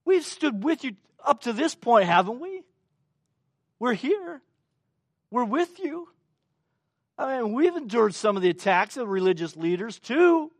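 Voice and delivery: disciples' stunned reaction. Retold or imitated. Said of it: "we can only imagine their reaction".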